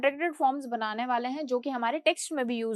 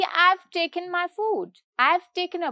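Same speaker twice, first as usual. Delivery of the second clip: casual; 4 semitones higher, much slower than usual. Shown as a demonstration. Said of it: "मतलब मैंने बहुत ही casually बोला".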